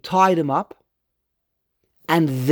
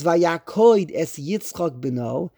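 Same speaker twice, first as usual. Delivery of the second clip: slow verse reading; slower than usual. Shown as a demonstration. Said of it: "it says".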